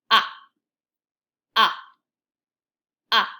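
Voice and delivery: big round mouth, say ah; repeated open ah; short o sound. Shown as a demonstration. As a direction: open ah pushed from the throat. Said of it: "I push sound from the back of my throat".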